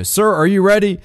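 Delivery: high, cartoonish officer voice asking. Commentator mimics the cadet's question in a cartoon voice. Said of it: "He does the cartoon voice".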